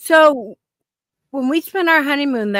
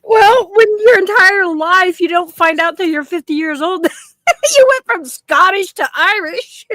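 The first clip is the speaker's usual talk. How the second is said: higher, louder, breaking into laughter; laughing at the husband's heritage shock; laughing while talking; 7 semitones higher, 5 dB louder than usual. Real, not acted. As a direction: push through the laughter, amused.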